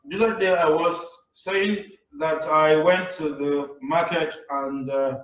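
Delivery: slow, rambling, aimless delivery; bored presenter. Shown as a demonstration. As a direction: ramble like a dull speaker. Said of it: "Don't be this guy".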